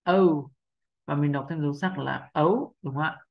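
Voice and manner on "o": O said as a clear open vowel; syllable O. Shown as a demonstration. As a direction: sound out the O alone. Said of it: "mình sẽ đọc thành âm O". (âm O đọc rõ)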